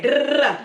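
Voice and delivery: rapid run of "da" sounds; imitated rattling noise. Speaker mimicking a noise to cap her point, rapid rattle.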